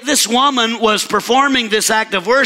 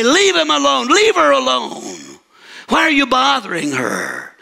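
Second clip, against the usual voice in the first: Jesus rebuking; 3 semitones higher than usual. Acted. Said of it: "And Jesus would say".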